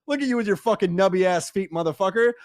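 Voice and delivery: fast, taunting trash talk at a baserunner. Retold or imitated. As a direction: needle the runner on first, mocking him. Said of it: "you're talking to that man's ear the whole time".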